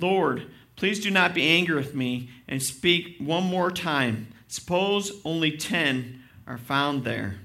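loud, driving preacher's reading of the passage; fervent scripture reading. Acted. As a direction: read Abraham's plea with full conviction. Pastor reads scripture aloud.

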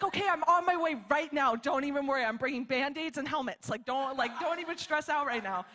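imitated frantic mom. Imagined mother rushing to daughter's aid, mock urgency. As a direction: act out a mother rushing to help.

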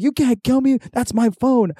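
high whining retort; mock drunken protest. Drunk brother protesting the phone attack, high mock outrage. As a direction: whine back in imitation of a drunk.

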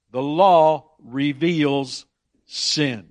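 very slow, weighted The law reveals; slow emphasis. Shown as a demonstration. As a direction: spell out each word. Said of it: "boil it down to a simple phrase".

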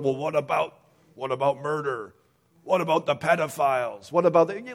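imitating objectors, rising in pitch and volume; mock protest, piling up what-abouts; indignant objectors. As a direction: act out people insisting on exceptions. Mimics people raising objections.

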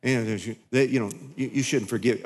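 low, soft, coaxing tempter; a hushed, wheedling devil on your shoulder; sympathetic devil. Retold or imitated. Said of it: "The devil comes to be all sympathetic".

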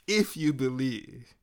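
a quiet, slow echo of the first if you believe. Acted. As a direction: let the repeat drop to a soft, slow hush. Jesus repeats the phrase.

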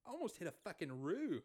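softly delivered Aussie yarn; Australian accent. Pretend. Co-host continues his improvised driving yarn, Australian accent. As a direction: play a casual Australian storyteller. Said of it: "your Australian is pretty good".

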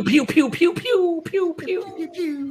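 high playful laser sounds; pew pew blaster noises. Pretend. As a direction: make toy blaster noises. Toy blaster sound effect.

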